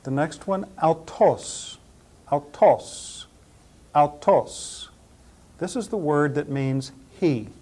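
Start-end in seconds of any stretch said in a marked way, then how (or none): 0.8-4.9 "autos" said ow-TOSS, each take set apart; Greek pronunciation demo. Shown as a demonstration. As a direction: model "autos" in Greek, stress on the second syllable. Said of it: "pronounce them all again".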